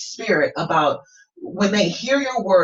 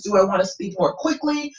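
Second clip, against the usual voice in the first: demonstrating brisker speech; quicker delivery. Shown as a demonstration. Coach playing with voice for a student, quicker delivery. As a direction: move briskly through the question. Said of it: "kind of playing with my voice".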